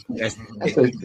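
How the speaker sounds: light Jamaican accent, "tick" with a hard t and no th; mock Jamaican, say "tick" instead of thick. Shown as a demonstration. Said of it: "We gonna take that H out".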